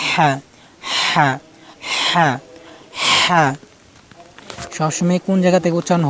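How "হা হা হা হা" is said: teacher's drill of হা, pressed h, paused between takes; pressed throat letter. Shown as a demonstration. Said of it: "চাপ দিয়ে".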